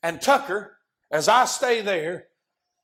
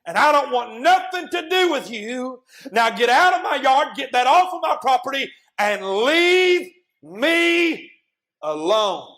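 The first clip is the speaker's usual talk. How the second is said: angry rejection; 4 semitones higher, 4 dB louder than usual. Acted. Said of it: "You say".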